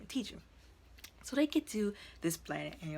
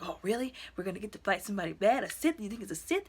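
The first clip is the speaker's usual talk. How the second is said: excited retelling; 3 semitones higher, 4 dB louder than usual. Retold or imitated. Student asks his teacher about fighting a Sith, excited. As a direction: quote an eager student, pitch jumping up. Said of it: "he was so excited".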